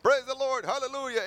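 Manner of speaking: loud, high burst of praise out of nowhere; an embarrassing hallelujah yelled in public; praise shout. Retold or imitated. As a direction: suddenly shout your joy to the Lord. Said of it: "he would start screaming".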